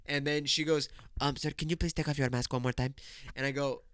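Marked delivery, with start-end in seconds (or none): 1.2-2.9 mock-polite clerk request; lightly voiced store clerk; imitating store clerk. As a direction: put on a stiff, polite checkout voice. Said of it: "how I just said it is how she fucking said it".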